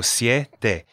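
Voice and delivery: "siete" as sye-te; two syllables. Shown as a demonstration. Teacher showing learners the syllables, two-beat "siete". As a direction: glide "siete" into two beats, syeh-teh. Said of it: "Siete is two syllables".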